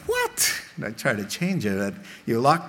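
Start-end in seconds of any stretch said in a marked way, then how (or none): 0.1-0.5 surprised what. Retold or imitated. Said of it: "I'm like".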